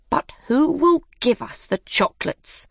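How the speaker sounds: high, small mouse voice. A narrator's reading. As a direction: squeak it as a little mouse. Mouse asks.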